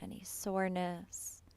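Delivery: calm, unhurried meditation voice with long pauses; guided meditation. Real, not acted. Yoga teacher settling students into breath awareness, guided meditation. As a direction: guide them gently into the breath, leaving space between phrases.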